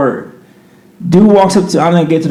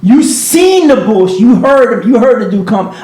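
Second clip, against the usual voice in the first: raised, pleading protest; higher pitched, arguing his case; retold protest to the bouncer; 6 semitones higher than usual. To the bouncer, protesting he did nothing, raised voice. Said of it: "I'm like".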